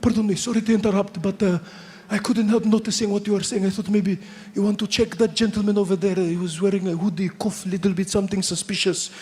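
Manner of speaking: put-on polite Pakistani-accented passenger. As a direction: lean in like a courteous tattletale. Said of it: "he goes".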